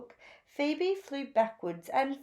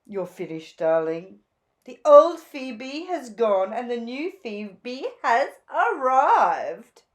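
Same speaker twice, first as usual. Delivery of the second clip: gushing Zelda; 8 dB louder than usual. A narrator's reading. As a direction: gush over the new look like a flamboyant stylist. Zelda voiced.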